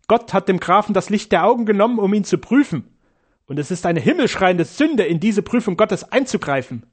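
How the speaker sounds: a hint of a shrill-tempered nun lamenting the failed plan; pious nun. A narrator's reading. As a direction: complain like an outraged pious sister. Nun's voice in the story.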